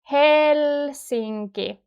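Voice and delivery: "Helsinki" slowly, with a clear open E; slow Finnish "Helsinki"; clear E sound. Shown as a demonstration. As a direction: draw out "Helsinki" to show the E. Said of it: "Then we have e, e sound".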